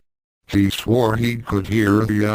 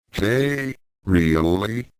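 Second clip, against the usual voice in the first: squeaky; slower than usual. A narrator's reading. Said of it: "Yukaitu squeaked".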